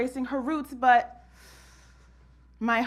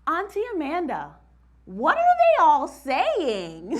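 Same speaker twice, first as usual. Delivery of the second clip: put-on child's whisper; 6 semitones higher, 3 dB louder than usual. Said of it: "And she whispered".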